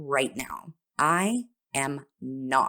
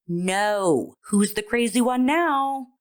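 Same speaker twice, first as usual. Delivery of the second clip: mock incredulous; 5 semitones higher, 3 dB louder, slower than usual. Imagined retort to the trusting old man, mock incredulity. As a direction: pitch climbing high on the comeback.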